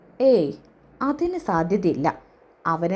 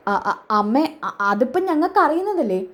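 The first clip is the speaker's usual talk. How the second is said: caught stammering; 3 semitones higher than usual. Acted. Children caught by mother, stammering.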